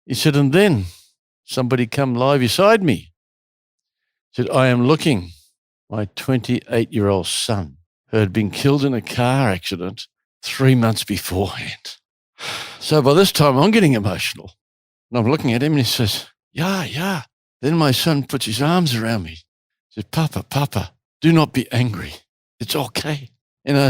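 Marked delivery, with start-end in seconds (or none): 0.4-3.1 imitated German-accented English; bad German accent. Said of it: "in my worst German accent". 4.5-12.0 light imitation of a German accent; bad German accent. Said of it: "in my worst German accent". 16.5-19.3 imitated German accent, "ja, ja"; bad German accent. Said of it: "in my worst German accent".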